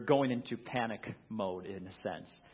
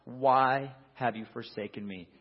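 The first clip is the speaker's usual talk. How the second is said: a touch raised, anguished; Jesus calling out on the cross, lightly raised; mild cry. Acted. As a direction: cry the question out. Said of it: "he cries out".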